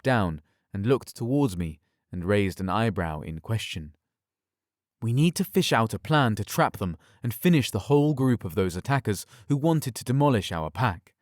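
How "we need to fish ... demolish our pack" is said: angry growl. Acted. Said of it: "I growled in anger".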